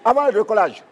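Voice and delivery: airline captain over the intercom; pilot announcement. Acted. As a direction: welcome passengers like a pilot. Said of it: "le capitaine Gou à bord".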